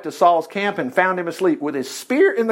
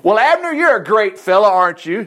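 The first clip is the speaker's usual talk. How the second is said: taunting; 3 semitones higher, 3 dB louder than usual. Acted. David mocks the sleeping bodyguard Abner, taunting. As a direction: needle him with false admiration. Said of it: "David taunted".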